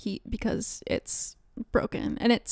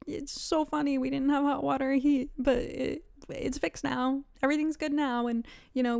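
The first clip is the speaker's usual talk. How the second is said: fake breezy cheer. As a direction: put on a light, everything-is-fine chirp. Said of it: "I can't call and be like".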